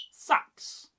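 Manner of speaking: "Sax" as one clean short syllable; clean, functional. Shown as a demonstration. Teacher showing Old Norse sound, clean practical "Sax". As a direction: say "Sax" cleanly, nothing extra. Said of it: "Clean. Functional. Practical".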